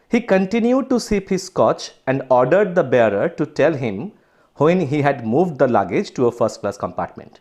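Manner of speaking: slow, deliberate textbook reading; story read-aloud. Acted. Teacher reads the story to students, slow read-aloud. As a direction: read the English text out slowly and carefully.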